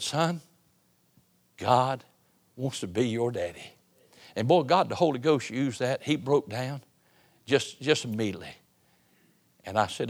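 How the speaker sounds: soft, gentle reassurance, dropping quiet; a father's hushed promise; tender. Retold or imitated. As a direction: comfort the weeping boy softly. Comforting a broken young man.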